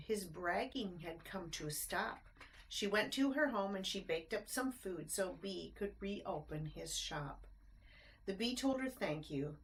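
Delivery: lilting rhymed storybook narration; bouncy read-aloud rhyme; reading to children. A narrator's reading. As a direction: read it like a bedtime picture book. Reads rhyming picture book aloud.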